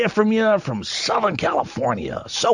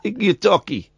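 put-on New York accent. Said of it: "my New York accent".

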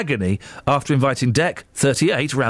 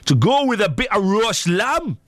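higher, put-on Geordie; Geordie accent; 5 semitones higher than usual. Radio host quoting Ant on roast lamb, mock Geordie. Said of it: "That's my Geordie accent".

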